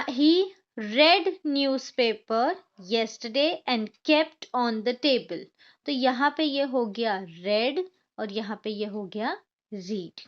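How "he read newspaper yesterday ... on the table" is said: very slow, word by word; slow example sentence. Shown as a demonstration. Teacher reading an example sentence slowly to students. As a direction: read it out slowly for the class. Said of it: "हम इसे पढ़ेंगे red".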